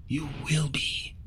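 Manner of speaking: hushed, tender reassurance; soft, gentle voice. Acted. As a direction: quietly reassure her. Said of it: "her voice is soft".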